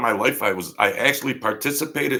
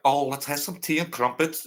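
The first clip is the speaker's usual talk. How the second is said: hammed-up posh English accent, raised pitch; mock English accent; 6 semitones higher than usual. Imitating a rock singer's English accent for the listeners, hammed up. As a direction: poke fun at a prim English accent. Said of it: "an English accent".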